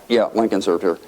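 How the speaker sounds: low, unimpressed echo; blowing him off. Retold or imitated. Sleepy congressman answering his chatty colleague, dismissive. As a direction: humour him, barely interested. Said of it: "I'm just blowing him off".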